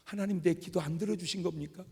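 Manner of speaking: mildly aggrieved, protesting prayer; retold complaint to God, restrained; arguing with God. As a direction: take God to task over the unanswered prayer. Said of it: "근데 따졌어요".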